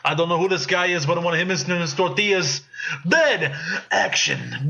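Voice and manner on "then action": movie trailer voice. Pretend. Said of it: "pull a little Pablo Francisco".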